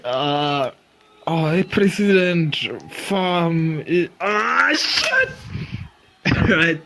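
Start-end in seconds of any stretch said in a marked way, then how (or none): 0.0-5.3 mock startled police chief. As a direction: redo it bigger, with a squeaky shocked shit. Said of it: "Let me do it".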